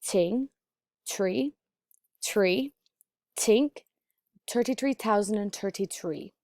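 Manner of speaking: "Ting" and "tree" with TH as a breathy T; dublin accent. Shown as a demonstration. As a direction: Dublin TH: "tink" starts with a puffed T. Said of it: "say these words with a non-voiced T H that sounds like a breathy T".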